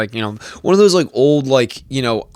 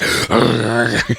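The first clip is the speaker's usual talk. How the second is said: imitated agitated rumble; mock worked-up sputter; wound-up washing machine noise. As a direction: mimic a man winding up like a washing machine. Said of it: "He gets wound up like a washing machine".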